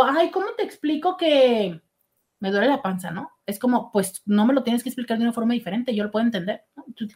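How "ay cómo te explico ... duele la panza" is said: condescending quote. Retold or imitated. Teasing someone who feels dumb, patronizing mock tone. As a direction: talk down as if explaining twice. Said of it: "y yo te digo".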